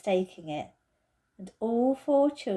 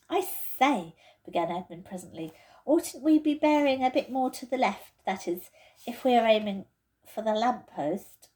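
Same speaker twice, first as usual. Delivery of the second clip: put-on much higher, disgusted boy's voice; Edmund's voice; 3 semitones higher than usual. Edmund complains to the others about the camphor, disgusted. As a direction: wrinkle your nose at the smell.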